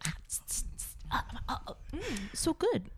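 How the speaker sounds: imitating spray hisses, then a pleased mm; mock spritzing into the mouth, tss tss; spray noises. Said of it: "pretended to spray, like, cleaner in your mouth".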